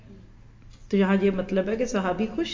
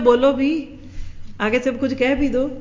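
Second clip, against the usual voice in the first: higher and louder impatient demand; mock-annoyed retort, raised; irritated snap; 4 semitones higher, 3 dB louder than usual. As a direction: lose your patience at a second call. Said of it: "کتنی جلدی چڑھتے ہیں".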